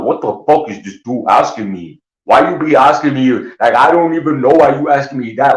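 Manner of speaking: high-pitched, incredulous mock protest; puzzled, whiny mock outrage; indignant bafflement. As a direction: imitate someone thrown by a stupid question. Imitates people puzzled by his question.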